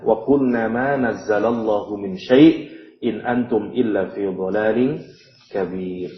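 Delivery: slow measured chanting of the verse; Quran recitation. Acted. Teacher recites the verse to students, slow chant.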